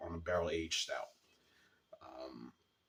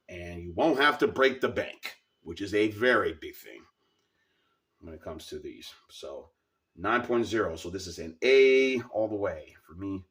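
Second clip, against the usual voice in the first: scratchy, strained raised voice; sore throat; 8 dB louder than usual. Real, not acted. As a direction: push the words through a sore throat. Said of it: "with a very scratchy voice".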